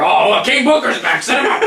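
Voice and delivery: rising, excited mock boss voice; Vince. Mimicking the boss mistaking who came out, hammed-up excitement. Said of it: "I guess Vince thought it was King Booker".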